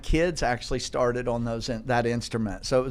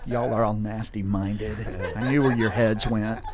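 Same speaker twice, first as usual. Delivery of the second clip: teasing laugh; 4 dB louder than usual. Real, not acted. Host teasing listeners mid-laugh.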